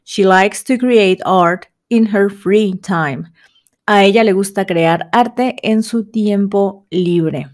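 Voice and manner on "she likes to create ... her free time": slow model sentence. Shown as a demonstration. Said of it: "Como ejemplo".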